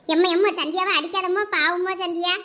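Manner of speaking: begging mother to stop; frightened plea for her sister; pleading. Acted. Child pleads mother stop hitting.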